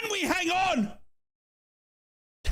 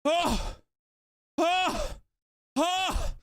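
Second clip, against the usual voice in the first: breathless gasps; much slower than usual. Real, not acted. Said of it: "I'm breathless".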